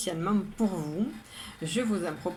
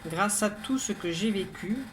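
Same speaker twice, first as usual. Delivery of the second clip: measured, even poem reading with pauses between lines; poem recitation. Acted. Poet reads today's poem to listeners, measured recitation. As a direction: recite it evenly, line by line, each phrase set apart. Rereads the poem a third time.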